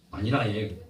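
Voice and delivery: light Gyeongsang accent; mild Gyeongsang-dialect demonstration. Shown as a demonstration. Preacher showing how Gyeongsang says it is fine, Gyeongsang accent. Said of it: "경상도는".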